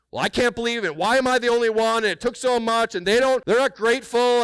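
mock a self-pitying server griping; grumbling. A churchgoer grumbling privately after serving, whiny and high. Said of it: "you do it with grumbling and say".

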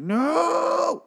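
shouted no. Retold or imitated. Host imitates Wes Bentley yelling to stop the butcher. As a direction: yell it out as the hero. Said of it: "And Wes Bentley's like".

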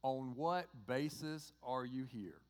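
slow, spaced-out exasperated question; acted frustration. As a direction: draw out each word in mock frustration. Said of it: "in frustration".

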